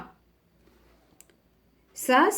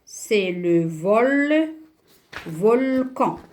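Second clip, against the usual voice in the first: VOLCAN broken up, VOL held long, then CAN; syllable by syllable; much slower than usual. Shown as a demonstration. Teacher sounding out the picture word, syllable by syllable. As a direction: stretch VOL slowly and separate it from CAN. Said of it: "qu'est-ce que je vais écrire".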